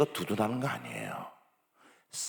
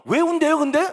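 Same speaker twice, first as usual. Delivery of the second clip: louder, higher nosy question; pressing question; 11 dB louder than usual. Retold or imitated. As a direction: demand the reason insistently. (선생님이 이유를 캐묻는 크고 높은 질문)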